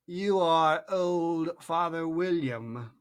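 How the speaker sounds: very slow, commanding drawl; caterpillar voice. A narrator's reading. Caterpillar ordering Alice to recite, slow and bossy. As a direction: order her to recite, lazily.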